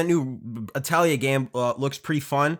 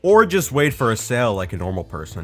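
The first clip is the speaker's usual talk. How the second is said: building rant; 7 dB louder, faster than usual. Acted. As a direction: rant faster and louder to the end. Escalating jealous rant at friend.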